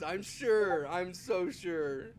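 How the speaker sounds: big amused voice, stretching the last words; jovially sure, as if after a big laugh; boisterous amusement. Acted. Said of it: "a big boisterous laugh, and goes".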